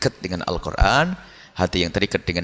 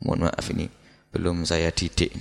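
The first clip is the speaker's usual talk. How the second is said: sheepish excuse; 5 semitones lower, 5 dB quieter than usual. Pretend. Man making excuses to God.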